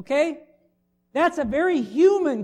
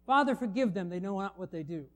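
hushed prayer; 6 semitones lower, 7 dB quieter than usual. Retold or imitated. Jesus praying on the cross.

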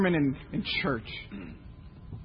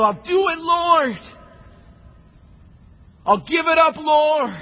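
earnest pledge; 6 semitones higher, slower than usual. Pretend. Congregant commits at the appeal.

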